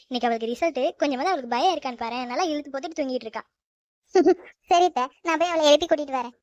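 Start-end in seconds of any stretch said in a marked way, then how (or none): 4.1-5.0 a short laugh into the reply. Acted. Daughter-in-law laughs at her mother-in-law's grumbling, light laugh.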